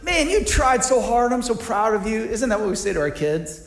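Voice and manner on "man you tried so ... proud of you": mock praise. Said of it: "why didn't you at least say".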